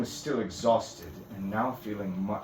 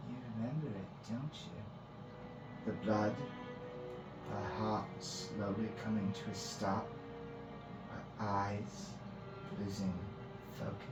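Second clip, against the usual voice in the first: higher, lightly maniacal, lingering on each phrase; maniacal priestess; 3 semitones higher, 4 dB quieter than usual. Acted. Priestess recalling a death to Finn, maniacal relish. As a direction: relish the bloody memory piece by piece. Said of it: "Her tone began to change. She began to take on a maniacal seeming".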